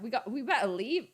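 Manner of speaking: put-on a light stab at an Australian accent; attempted Australian accent. Streamer mimicking the TV hosts, rough Australian accent. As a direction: try a casual Aussie accent. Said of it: "I can't do the Australian".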